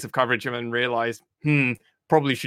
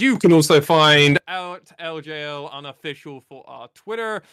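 mic peaking distortion. Real, not acted. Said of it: "your mic is peaking all the time".

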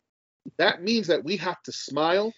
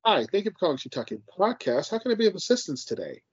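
polite, upbeat phone greeting; the cheerful voice of a call centre agent; customer service voice; 3 semitones higher than usual. Shown as a demonstration. Demoing his work voice for the podcast host, upbeat and polite. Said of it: "That is my customer service voice".

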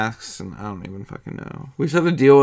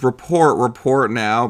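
commanding shout; 5 dB louder, slower than usual. Retold or imitated. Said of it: "so he goes".

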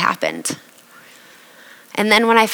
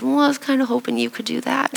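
sheepish request through real laughter; laughing sheepishly; 6 semitones higher, 5 dB quieter than usual. Real, not acted. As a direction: laugh while asking, a bit embarrassed. Laughing while asking mom.

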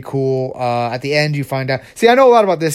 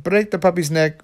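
higher-pitched villain order; commanding evil doctor; 4 semitones higher than usual. Acted. Doctor insists to reluctant child, commanding. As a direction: repeat the order in the doctor's put-on voice.

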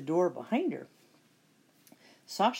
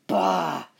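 disgusted witch; 6 dB louder than usual. Acted. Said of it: "said the witch".

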